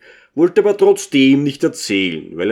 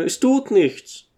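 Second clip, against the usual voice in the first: 1 tongue in cheek; 8 semitones higher, slower than usual. A narrator's reading. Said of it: "mit der Zunge gegen die Backe stoßend".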